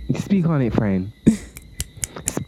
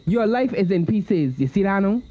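higher, slow, told-you-so sermonizing; mock solemn warning; 6 semitones higher, slower than usual. To the greedy person who ignored advice, a slow mock sermon. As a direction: wag a finger with a chanting moral.

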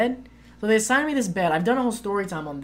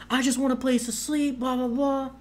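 higher put-on voice of an irate drunk; mock irate; 7 semitones higher than usual. Mimicking the irate French guy demanding a place to sleep, higher mock whine. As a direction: whine it like the angry guy who wants his bed. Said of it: "he's getting really irate".

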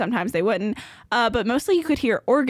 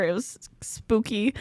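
spooky whisper; 2 semitones lower, 4 dB quieter than usual. Pretend. Telling friends about a ghost tour, in a whisper. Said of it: "whispered spooky remark".

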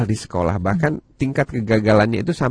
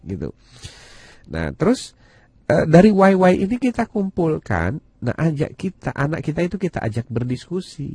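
normal talking voice

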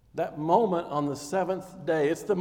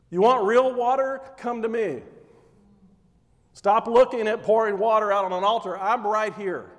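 calling out loud; 2 semitones higher, 3 dB louder than usual. Retold or imitated. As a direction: proclaim it across the temple courts. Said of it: "It says he screamed it".

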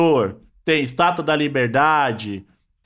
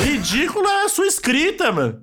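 shrill pitch-raised insult; berserk rage; 8 semitones higher than usual. Pretend. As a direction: hurl it back, voice way up. Mock outrage at journalist. (fúria fingida contra o jornalista)

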